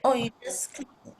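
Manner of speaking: glitchy robotic voice over a bad connection; robot voice breaking up. Real, not acted. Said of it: "it's like a computer".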